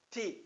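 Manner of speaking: "ti" with a very brief vowel; very short ti. Shown as a demonstration. Teacher shows the second syllable, very brief "ti". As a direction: cut the "i" of "ti" short. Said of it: "muito breve".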